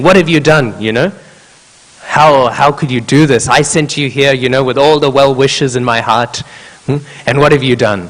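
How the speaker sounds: a hurt teacher demanding an answer; retold reproach. Angry guru rebukes his disciple.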